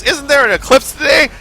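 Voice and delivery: high, loud alarmed cry; panicked shout. Retold or imitated. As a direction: yell the bad news. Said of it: "someone says".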